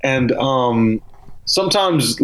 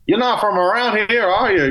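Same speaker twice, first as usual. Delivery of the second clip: higher-pitched attempt at a Boston accent; Bostonian accent; 8 semitones higher than usual. Boston local questioning a Southern sales caller, Bostonian accent. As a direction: put on your best Bostonian. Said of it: "that's my best".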